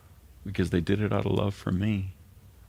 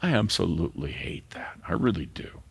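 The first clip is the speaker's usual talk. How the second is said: tearful whisper. Real, not acted. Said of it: "I start to cry".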